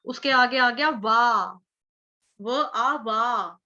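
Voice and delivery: stretched vowel. Shown as a demonstration. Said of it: "स्वर थोड़ा दीर्घ जाएगा".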